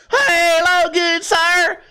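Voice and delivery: put-on high, stretched-out Southern-style accent; talking different after head hit. Head-injured settler greeting a gentleman, exaggerated drawling accent. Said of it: "I hit my head so hard and now I talk different".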